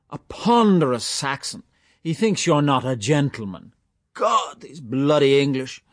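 a hint of teasing mockery, slowed; mock outrage, playful; lightly voiced jester. A narrator's reading. Mulligan teasing Stephen about his name, light mock scorn.

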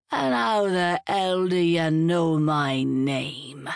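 lightly voiced suspicious drunk, slow; suspicious old sailor, unhurried; hint of a surly drunk. Blythe suspicious of Julia, lightly voiced slow drunk.

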